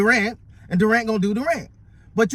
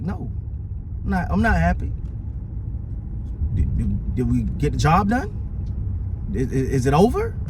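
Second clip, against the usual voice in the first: Kobe quote; 6 semitones lower than usual. Retold or imitated. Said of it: "And he's like".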